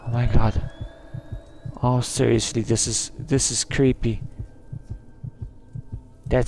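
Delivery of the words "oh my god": ordinary talk, nothing marked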